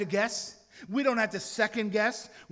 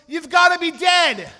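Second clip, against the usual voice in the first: put-on loud, high, eager child's shout; excited boy yells the answer to the teacher; excited kid's yell; 7 semitones higher, 12 dB louder than usual. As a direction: blurt it out like a thrilled five-year-old. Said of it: "he yells".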